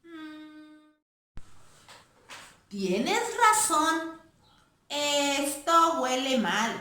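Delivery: ponder, then plead gently; thoughtful girl mouse. Acted. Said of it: "la ratona pensativa".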